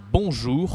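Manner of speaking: "bonjour" with a nasal on, no n sound; French nasal on. Shown as a demonstration. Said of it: "Be careful here of the pronunciation".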